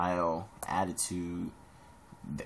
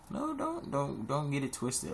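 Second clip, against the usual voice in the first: emphatic warning; 6 semitones higher than usual. Real, not acted. Correcting the viewers.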